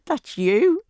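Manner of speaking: high, loud amused cry; coworkers' exclaim. Retold or imitated. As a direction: call it out to the whole room. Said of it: "They said".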